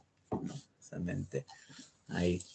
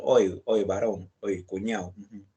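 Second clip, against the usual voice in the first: Lima street slang. Retold or imitated. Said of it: "Es un ejemplo ... habla, pues, cotidiana".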